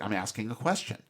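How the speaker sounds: matter-of-fact, quick reply; brisk and unbothered, no emphasis; Kirk. Retold or imitated. Kirk answering Bones, very matter-of-fact. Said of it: "in that very matter-of-fact Kirk sort of way".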